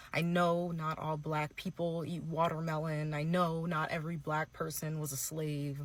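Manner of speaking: fake-tearful influencer apology. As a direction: play a teary influencer pleading not to be canceled. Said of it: "This is my impression of a white influencer that's making an apology video".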